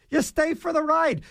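rising emphatic restatement; emphatic repeat. Real, not acted. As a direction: hammer the point the second time.

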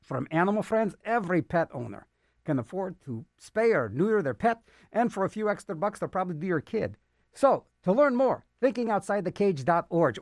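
lively, punched-up PSA delivery; announcer read. Acted. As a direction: pitch it to listeners like a radio spot. Reads a public service announcement.

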